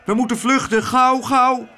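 high, panicky urging; alarmed high-pitched call; urgent calling. A narrator's reading. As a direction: cry out to get everyone fleeing. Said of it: "riep Klaterhoen".

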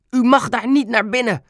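high, urgent called-out protest; loud cry. A narrator's reading. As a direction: call out to stop him, high-pitched. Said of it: "riep Ben hard". (hoog en dringend uitgeroepen)

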